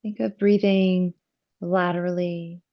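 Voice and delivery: calm yoga teacher guiding the breath, with long pauses; measured phrases, leaving space to breathe; guided breathing meditation. Real, not acted. Yoga teacher guiding students' attention to the breath, calm meditative delivery.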